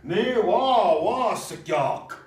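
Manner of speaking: slow, drawn-out tut-tut about Trump; mock disapproval. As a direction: say it like shaking your head. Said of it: "You could say that".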